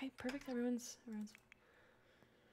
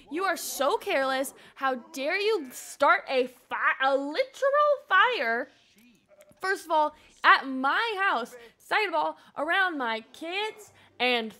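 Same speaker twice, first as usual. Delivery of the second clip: slow, punched-out mock indignation; argumentative scolding; 5 dB louder than usual. Father arguing about parenting over a fire, mock indignant scolding. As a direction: tick off each point like an offended parent. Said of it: "Argue about parenting. Be like".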